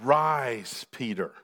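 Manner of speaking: lightly acted heavenly voice, low and drawn out. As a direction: give a simple, low command as the voice. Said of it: "The voice speaks".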